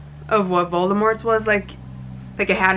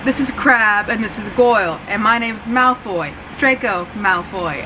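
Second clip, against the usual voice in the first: a light imitation of a snooty British accent; lightly voiced British schoolboy, the movie Draco. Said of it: "I don't know why I'm doing the accent".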